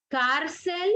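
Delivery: "cárcel" with weight on "cár"; stress on penultimate syllable. Shown as a demonstration. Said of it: "En la penúltima sílaba".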